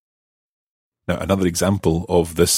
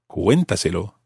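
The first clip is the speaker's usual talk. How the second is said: "Cuéntaselo" with the stress kept on CUEN; stress on first syllable. Shown as a demonstration. Teacher showing the correct stress, on CUEN in "Cuéntaselo". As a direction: hit CUEN and let "-taselo" follow unstressed. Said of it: "it has to maintain the stress".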